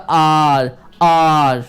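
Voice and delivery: "आर" with the tongue touching nothing; demonstrated R sound. Shown as a demonstration. Teacher showing students tongue position, demonstrated R sound. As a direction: draw out "आर", tongue kept off the palate. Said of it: "tongue touch नहीं करेगा".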